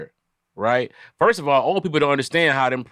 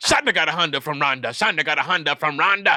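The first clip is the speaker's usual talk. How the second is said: mock speaking in tongues. Retelling what he used to say in church, mock speaking in tongues. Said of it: "that boy is spitting on the tongues".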